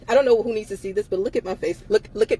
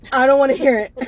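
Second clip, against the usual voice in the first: laughing; 3 semitones higher, 5 dB louder, faster than usual. Real, not acted. Exasperated laughing outburst.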